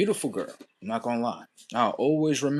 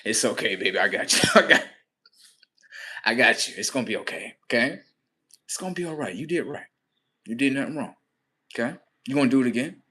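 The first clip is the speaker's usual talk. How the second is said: reassuring; 2 semitones lower, faster than usual. Retold or imitated. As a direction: soothe him gently. Consoling son.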